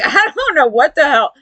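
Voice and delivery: high, laughing through it; laughing disbelief. Real, not acted. Reacting to Corey's bragging, laughing. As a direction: giggle out the confusion.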